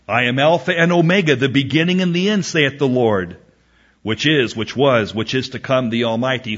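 brisk, ringing Bible reading that eases off; scripture proclamation. Acted. Preacher reads Revelation to the congregation, proclaiming.

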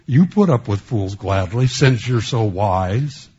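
mildly mocking quote, pushed a little; a touch of mock praise for the gullible; sarcastic. Preacher quoting Paul to a proud church, mildly sarcastic. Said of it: "that's sarcasm".

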